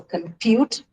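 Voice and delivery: "compute" slowly, with "pute" stressed; drawn-out "compute", weight on "pute"; stress on second syllable. Shown as a demonstration. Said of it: "needs to be stressed on the second syllable".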